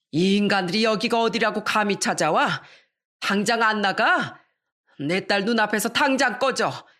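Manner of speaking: angrily chasing them out, but held back; mild mock yell. Mother chasing in-laws from the hospital room, mild mock yell. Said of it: "이렇게 소리쳤어요".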